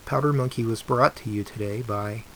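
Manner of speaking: kindergarten teacher voice. Shown as a demonstration. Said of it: "my P B S voice".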